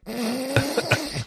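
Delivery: re-enacted inappropriate laughing fit; imitating giggles that slip out; acted-out stifled giggles. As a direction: show how you crack up at a solemn moment. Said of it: "I'll just be like".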